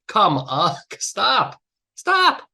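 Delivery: exasperated stop. Real, not acted. Speaker pleading with trial lawyers to stop thanking jurors, exasperated. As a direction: beg them to stop, almost laughing. Exasperated outburst at bad habit.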